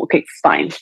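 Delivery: resigned giving up. Retold or imitated. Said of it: "you are saying, like".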